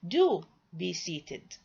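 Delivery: slow, with "Do" stressed and held; insist, weighting the opening "Do"; insistent. Shown as a demonstration. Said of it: "Here I am insisting".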